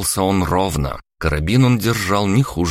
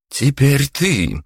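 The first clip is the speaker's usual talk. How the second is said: slow, high, louder, like a predator rounding on prey; predatory turn; 8 semitones higher, 3 dB louder, much slower than usual. Acted. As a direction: turn on the daughter menacingly. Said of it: "превратилась в хищницу".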